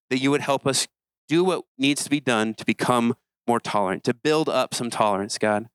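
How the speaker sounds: calm closing prayer to God. Acted. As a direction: pray sincerely over the group.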